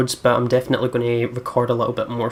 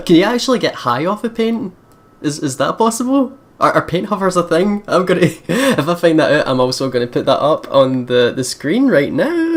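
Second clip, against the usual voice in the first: higher and louder, still laughing; amused, giggly; 5 semitones higher, 5 dB louder than usual. Real, not acted. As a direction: talk through the giggles.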